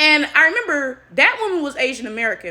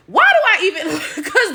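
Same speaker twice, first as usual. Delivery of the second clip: high, loud, laughing through the words; breaking into laughter; 7 semitones higher, 4 dB louder than usual. Real, not acted. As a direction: start the question and crack up. Breaks up laughing mid-sentence.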